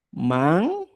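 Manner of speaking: MANCA split into "man" and "ca"; syllable by syllable. Shown as a demonstration. Teacher writing out the word, syllable by syllable. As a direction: say MANCA in two separated syllables, first one drawn out. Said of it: "Pongo aquí".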